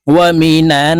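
ওয়ামিনান with the final n held and hummed through the nose; ghunnah. Shown as a demonstration. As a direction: linger on the closing n of ওয়ামিনান. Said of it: "এই নুনের সাথে গুন্না করে বলবো". (ওয়ামিনান-এর নুন গুন্না করে টেনে)

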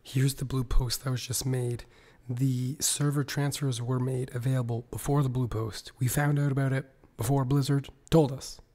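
hoarse, half-whispered sick voice; lost voice. Real, not acted. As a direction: talk through a sore throat with little voice. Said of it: "I'm sick and I've lost my voice".

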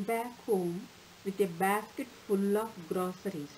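put-on measured storytelling read for children; expressive read-aloud voice; story narration. A narrator's reading. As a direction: tell the fable clearly and gently to a class.

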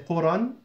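قرى pronounced "quran" with a final n; linking form of قرى, ending in -an; nunated ending. Shown as a demonstration. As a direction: give قرى its two-fatha -an ending. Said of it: "if it's in the middle of the sentence".

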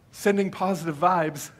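slow, airy well-wishing put-on; drawn-out mock good vibes; mock well-wisher. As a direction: gently send up a vague well-wisher. Mocks non-believers' well-wishing phrases.

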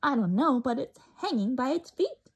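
chirping. Acted. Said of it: "chirped Flitter".

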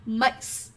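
"makes" ending in a plain hissed s; final s sound. Shown as a demonstration. Teacher contrasts answer D with the others, final s sound. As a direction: model "makes" with s at the end, no extra syllable. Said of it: "chúng ta sẽ phát âm là s".

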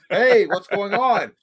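drawn-out mock director's greeting; playful slow impression; mock Shyamalan greeting. Imitating M. Night Shyamalan.

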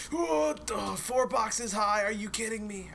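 high-pitched, drawn-out disbelief; incredulous outburst. Real, not acted. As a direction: exclaim high in disbelief, stretching it out. Outraged at the box height.

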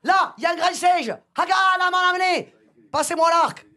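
hammed-up chief's command; chief giving orders.

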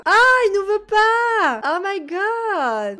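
high, slow, loud wail of dismay; drawn-out high whine of disappointment; dramatic dismay. Real, not acted. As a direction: stretch it out like heartbreak. Kiss rejected in game.

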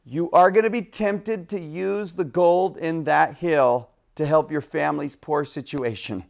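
acted-out angel's caution; stern warning. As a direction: warn him firmly, spacing out the words. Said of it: "Moroni warned him".

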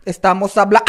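"habla" cut by a short squawk; sudden shriek. Shown as a demonstration. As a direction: break the end of "habla" into a sharp cry. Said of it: "grito normal y de repente".

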